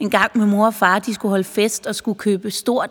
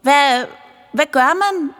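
calling out; 5 semitones higher, slower than usual. Acted. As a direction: shout the question after her. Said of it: "Og Umba råbte". (råber spørgende efter damen)

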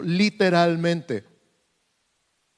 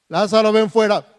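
grito de Jesús; 5 semitones higher, 10 dB louder than usual. Retold or imitated. Jesus calling Lazarus again.

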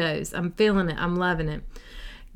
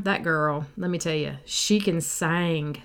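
Southern praise; 3 semitones lower, slower than usual. Retold or imitated. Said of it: "that's what you would say".

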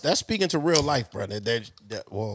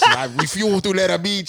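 put-on laughing Indian accent on beach; 4 dB louder than usual. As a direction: repeat the line in an Indian accent. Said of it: "I turn Indian in the middle of that sentence".

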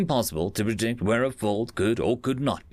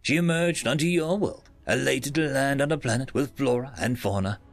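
put-on Bez, old speech synthesizer. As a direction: speak like a dated computer voice. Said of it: "I'll let my colleague Bez thirteenth Generation tell the rest".

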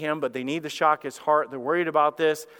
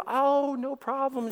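breezy nurse; 9 semitones higher, slower than usual. Retold or imitated. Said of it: "She goes".

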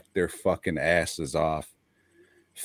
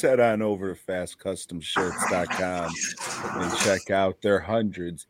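casual ad read for t-shirts; podcast ad plug; sponsor read. Acted. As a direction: pitch the shirt site like a host.

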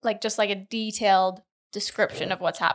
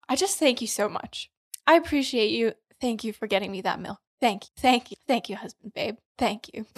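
best prayer voice. Pretend. Thanking her husband for the milk in mock prayer voice. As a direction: lay on the gratitude like a worship prayer. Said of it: "Do it in your best prayer voice".

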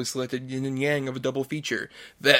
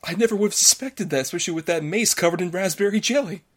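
higher-pitched mock astonishment; astonished inspector; 5 semitones higher than usual. Inspector reacts to the culprit's confession, mock-astonished. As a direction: play the stunned detective, lightly hammed up. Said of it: "our little mystery play".

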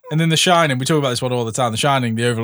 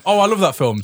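higher-pitched, gushing fan; mock enthusiasm; 6 semitones higher than usual. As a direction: act delighted by a favourite film. Acting a film fan's first reaction.

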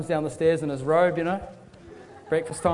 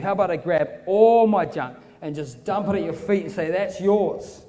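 raised, building, hurried offer; urgent surrender; 3 semitones higher, 3 dB louder than usual. Acted. Man signs his whole house over to Jesus, urgent. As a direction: pour it all out in an eager rush.

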